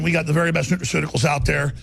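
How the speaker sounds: ordinary talk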